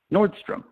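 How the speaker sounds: Nordstrom lifted high and held apart; key word stressed. Shown as a demonstration. Speaker revealing the winning word, Nordstrom pitched high. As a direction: land Nordstrom as the magic word. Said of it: "that one specific word".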